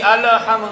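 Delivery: lam and meem bounced in الحمد; mispronounced qalqalah. Shown as a demonstration. Teacher shows both wrong forms, bouncing lam and meem. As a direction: add a short echoing vowel after lam and meem in الحمد. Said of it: "یہ غلط ہو جائے گا".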